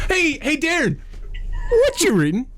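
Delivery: segment host voice. Pretend. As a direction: belt out the segment title. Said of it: "Say it in your style".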